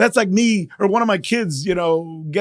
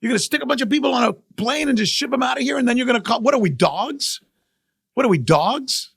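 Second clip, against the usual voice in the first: higher, outraged retelling of their complaint; indignant outcry; 5 semitones higher than usual. Retold or imitated. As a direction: voice the Venezuelans' hurt anger, pitched up. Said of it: "Venezuelans are mad".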